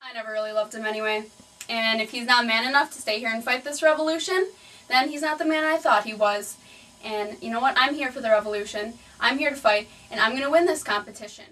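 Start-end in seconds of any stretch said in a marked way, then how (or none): 1.7-11.5 louder, indignant, building to a fight cry; defiant rant. Acted. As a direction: pump herself up for the fight.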